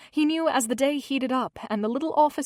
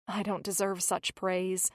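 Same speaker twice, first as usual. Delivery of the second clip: quietly sad; 2 semitones lower, 5 dB quieter than usual. Acted. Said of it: "A sad look flashed across".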